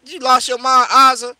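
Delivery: loud, sharp rebuke; loud scolding. Real, not acted. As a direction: call Aza out loudly. Scolding Aza.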